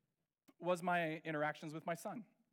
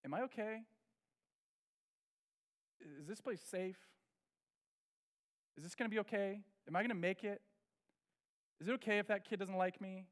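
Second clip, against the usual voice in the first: anxious inner voice; 3 dB quieter than usual. Retold or imitated. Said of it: "It's just happening to him".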